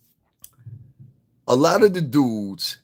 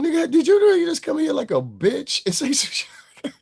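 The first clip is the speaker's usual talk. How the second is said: whisper; 11 semitones higher than usual. Retold or imitated. Mock question to male feminists.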